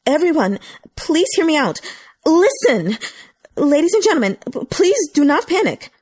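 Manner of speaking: calm the panicking crowd; over a loudspeaker. A narrator's reading. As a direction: staff member calling through a loudspeaker. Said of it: "with a loudspeaker in hand".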